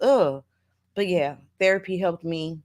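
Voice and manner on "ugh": exasperated ugh. Retold or imitated. Imitates her disgust while grieving.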